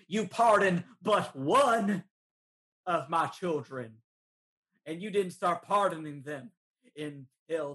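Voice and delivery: lightly voiced turkey lord proclaiming his uprising; turkey villain monologue.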